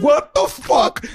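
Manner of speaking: high, drawn-out indignant shout; acted-out furious disbelief; retold mad outburst. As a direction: relive the outrage at being grabbed. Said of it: "I was so fucking mad".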